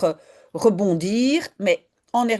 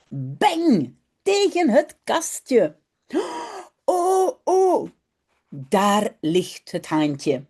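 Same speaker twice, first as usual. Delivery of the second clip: put-on lively read-aloud for children; story reading; slower than usual. A narrator's reading. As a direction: read the story brightly with voices. Reads Dutch children's story aloud. (lecture d'une histoire pour enfants)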